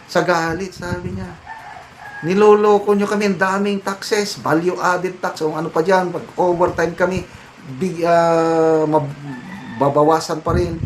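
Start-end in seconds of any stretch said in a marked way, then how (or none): 2.3-10.8 put-on a touch of the young leader's fury, voice pitched up; mock-fiery protest lines, slowing on the taxes; retold angry protester. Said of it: "nanlilisik ang mata sa galit".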